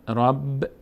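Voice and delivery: "رب" closed on a held b with no vowel; teacher demonstrating a vowelless ب in "رب"; vowelless consonant. Shown as a demonstration. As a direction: stop "رب" firmly on the ب. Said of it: "به صورت ساکن".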